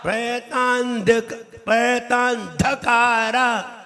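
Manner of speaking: प्रहतान्धकारा sung slowly with the weight on धा; stress on धा. Shown as a demonstration. Teacher showing students to lean on धा in प्रहतान्धकारा. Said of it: "धा पे जोर लगेगा".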